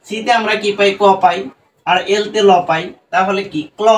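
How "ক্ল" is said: ক্ল as one syllable, k running into l; blended consonants. Shown as a demonstration. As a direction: join k and l in ক্ল with no vowel between. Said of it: "দুটা যদি এক জায়গায় করি".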